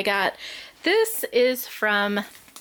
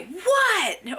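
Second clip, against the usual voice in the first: startled what; 9 semitones higher than usual. Retold or imitated. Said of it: "I either say".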